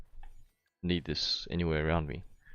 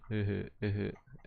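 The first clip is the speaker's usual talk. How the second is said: sarcastic laugh; 2 semitones higher, 4 dB quieter than usual. Real, not acted. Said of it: "my sar-, sarcastic laugh".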